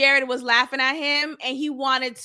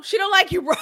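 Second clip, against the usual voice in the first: mock shout; 4 semitones higher, faster than usual. Cinco pressing Irvin harder, mock shout. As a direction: hammer it home this time. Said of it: "he's telling, uh, Irvin".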